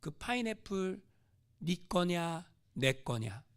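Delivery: slow, low, calm voice of God; God gently questions the missionary, slow and low. Acted. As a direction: ask it gravely, as God. Voice of God speaks.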